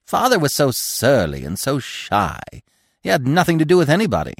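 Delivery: high, emphatic squirrel voice; chatty squirrel. A narrator's reading. Squirrel describing his father.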